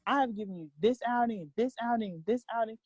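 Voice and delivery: a hint of an exasperated parent, insistent and emphatic; lightly acted scolding, stressing each repeated offer; God. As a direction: imitate someone trying to get a stubborn child's attention. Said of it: "when he talks to me, he's like".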